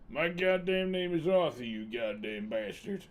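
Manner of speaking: hammed-up sweary American outlaw; American accent. Streamer playing Arthur for chat, emphatic mock-irritated American accent. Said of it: "Can you do an American accent?".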